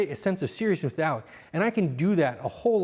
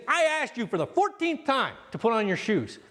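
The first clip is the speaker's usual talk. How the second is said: higher, fed-up complaint; exasperated yell; 6 semitones higher than usual. Shown as a demonstration. Coach mimicking a parent yelling across the room, exasperated. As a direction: vent the frustration. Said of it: "doing your thing".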